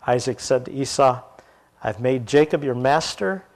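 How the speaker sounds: measured storytelling read with voiced parts; scripture reading. Preacher reading Genesis aloud to the congregation, measured. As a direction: read the Bible passage to the class.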